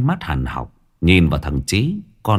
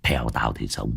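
a swaggering village thug boss, scornful; lightly voiced boss, sneering at old Tú; slower than usual. Gang boss mocking old Tú to his underlings, scornful. Long's menacing boast.

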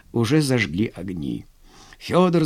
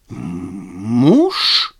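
bewildered; 6 semitones lower, 4 dB louder than usual. A narrator's reading. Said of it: "растерянно переспросил Владимир".

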